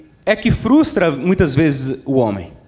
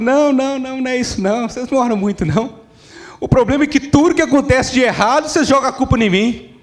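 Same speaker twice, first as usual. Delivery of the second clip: diabo contestando; 6 semitones higher, faster than usual. Acted. Devil protests in the joke.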